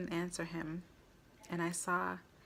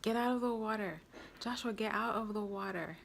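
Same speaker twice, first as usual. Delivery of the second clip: yelled back; 5 semitones higher than usual. Retold or imitated. Mom yells to son from the water, urgent yell. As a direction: shout the order urgently at the boy. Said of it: "I just yelled back".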